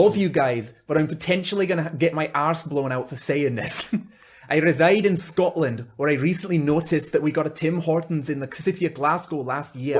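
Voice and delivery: put-on Scottish reading voice; amateur Scottish accent. Shown as a demonstration. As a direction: attempt a Scottish accent while reading a letter. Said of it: "do it in Scottish".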